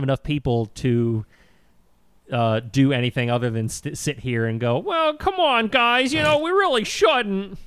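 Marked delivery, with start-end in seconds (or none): 4.8-7.6 high, pleading, timid; meek high voice. Retold or imitated. Mimicking a meek congressman.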